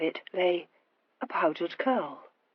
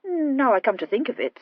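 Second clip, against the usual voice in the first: mildly pensive, higher musing; 5 semitones higher, 4 dB louder than usual. A narrator's reading. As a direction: muse as if it just occurred to you. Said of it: "said the Earl pensively".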